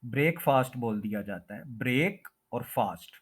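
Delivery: ब्रेकफास्ट as "brake-faast"; common mispronunciation. Shown as a demonstration. Teacher showing the common spoken form, mispronounced. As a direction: say ब्रेक with "ay" and फास्ट with long "aa". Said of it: "इसको भी इसी तरह से".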